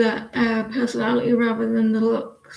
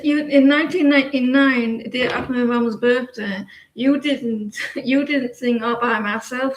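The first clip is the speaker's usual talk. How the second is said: mock telling off. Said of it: "And I'll say".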